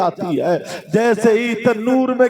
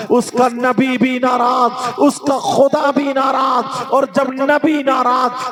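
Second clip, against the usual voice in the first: preacher proclaiming the Prophet's warning, forceful; fiery preaching. Acted. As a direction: hammer each warning home.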